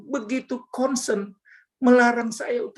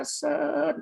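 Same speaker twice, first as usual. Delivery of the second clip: soft, higher-pitched urging call; 5 semitones higher, 4 dB quieter than usual. Retold or imitated. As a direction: imitate a gentle voice calling to send someone. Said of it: "seperti kayak dia menyuruh saya". (panggilan pelan bernada menyuruh)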